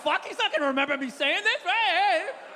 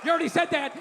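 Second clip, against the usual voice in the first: mock heckle; faster than usual. Mock heckling the old man.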